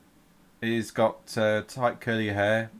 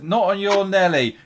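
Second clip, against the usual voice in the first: sharp, much higher and louder refusal; indignant serving wench; 10 semitones higher, 9 dB louder than usual. Acted. Serving wench refusing a grabbing sailor, high indignant retort. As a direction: slap him down with your voice. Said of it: "And she goes".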